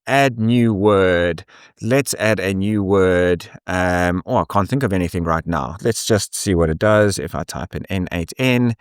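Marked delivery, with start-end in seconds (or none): 0.1-3.5 slow dictation. Shown as a demonstration. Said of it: "dictating a word into app".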